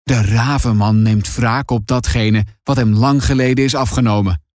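low, brooding prophecy; ominous old grandpa. Acted. Grandpa warns of the raven man's revenge, low and ominous. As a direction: intone a dark warning in a low voice. Confused grandpa gives dark warning.

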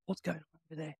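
light, softly voiced alert meerkat; meerkat impression. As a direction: pop up and peer around like a meerkat. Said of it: "Novel meerkat impression".

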